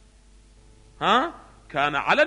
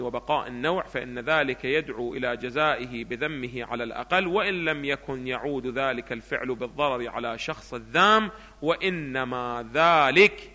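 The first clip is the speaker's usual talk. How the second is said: continuous reading in a lower pitch; textbook reading; 4 semitones lower than usual. Acted. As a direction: read the passage through evenly, slowing at the end. Reads the textbook aloud. (قراءة متصلة للمتن بنبرة منخفضة)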